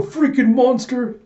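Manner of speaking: high, drawn-out yell; hammed-up soldier shouting as he fires; battle yell. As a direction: yell it at the enemy. Soldier unloads a gun on her.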